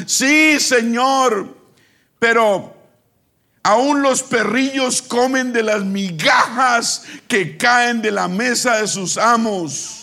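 high, slow, drawn-out pleading; insistent plea. Retold or imitated. Woman answering the Lord about the crumbs, pleading. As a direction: plead up high, stretching each phrase.

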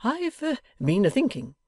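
high, hesitant, plaintive voice; timid old man's despondency; despondent. A narrator's reading. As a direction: broach it haltingly and dejectedly. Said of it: "in a tone of despondency".

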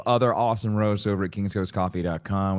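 ad read in a put-on Long Island accent. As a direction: sell coffee like a Long Island local. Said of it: "Long Island accent".

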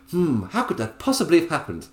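hammed-up posh musing; posh disbelief. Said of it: "I made it so incredibly posh".

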